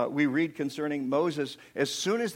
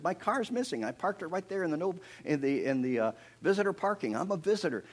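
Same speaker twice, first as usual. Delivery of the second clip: higher, flustered protest; mildly upset; 5 semitones higher than usual. Retold or imitated. Visitor to the superintendent about the missing car, upset. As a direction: retell it as an indignant complaint. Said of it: "I'm really upset".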